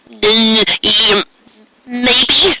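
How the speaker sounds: high stammered maybe; stupid stammer. Acted. Trixie caught in the act, high stammer. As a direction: fumble the answer, caught out. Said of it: "Trixie asked stupidly".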